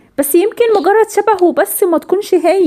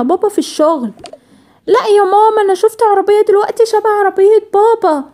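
put-on excited little girl; 5 semitones higher than usual. Daughter rushes to tell mother about dad's car, excited. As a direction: burst in breathless to tell mom the news.

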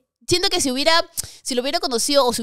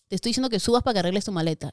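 angry; 3 semitones lower, 4 dB quieter, faster than usual. Retold or imitated. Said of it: "pues, asado".

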